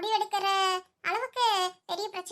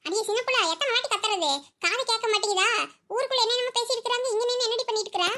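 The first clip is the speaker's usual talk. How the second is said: exasperated calling; 3 semitones higher than usual. Acted. Friend fed up after calling many times, exasperated scolding. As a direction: tell her off for ignoring you.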